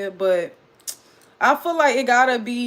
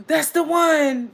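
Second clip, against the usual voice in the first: thrilled realization; 4 semitones higher, 4 dB louder, slower than usual. Retold or imitated. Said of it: "This is how I felt when".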